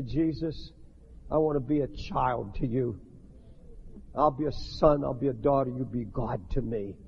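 whisper-close earnest vow; tender prayer. Shown as a demonstration. Preacher models a child's surrender prayer, low and tender.

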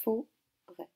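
"Forêt" en deux morceaux, fo... rêt; répéter "Forêt" en séparant bien les syllabes; découpé en syllabes. Shown as a demonstration. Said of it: "Donc on écoute bien, voici le mot". («Forêt» répété syllabe par syllabe)

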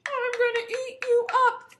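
high, loud troll threat; menacing troll. Acted. Troll threatening middle goat, high and loud. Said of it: "the troll said".

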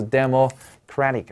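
"democratic" slowly, stress on CRAT; stress on third syllable. Shown as a demonstration. Teacher contrasts the adjective for students, stress on the third syllable. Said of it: "关键就是重音位置要准".

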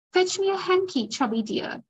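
coaxing a lover as if alone; intimate tone. Acted. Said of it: "using the same intimate tone".

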